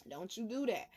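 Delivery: hushed second warning; quiet repeat. Real, not acted.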